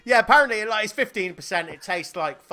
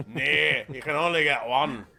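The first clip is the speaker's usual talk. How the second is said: put-on a light Scottish accent for the clerk; 4 semitones lower than usual. The office refuses the second bottle, in a light Scottish accent. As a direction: turn the buyer down flatly in a mild Scottish accent. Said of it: "he suggested my accent, my Scottish ac".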